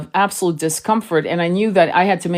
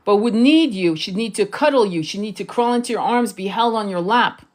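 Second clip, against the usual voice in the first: usual speaking voice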